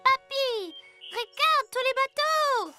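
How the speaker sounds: put-on high excited child's call. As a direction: call grandpa over to see something wonderful. Child calls grandpa to see boats.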